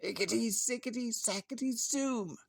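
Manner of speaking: a lightly high chanted spell; muttered spell. A narrator's reading. Witch stirring the cauldron, chanting a spell. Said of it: "she muttered a spell".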